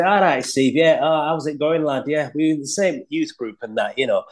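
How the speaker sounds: casual, matey Yorkshire accent; flatter Yorkshire accent. Shown as a demonstration. Chatting to a mate from the youth group, flat Yorkshire accent. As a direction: slip into flat Yorkshire talk among friends. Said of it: "a much flatter accent like this".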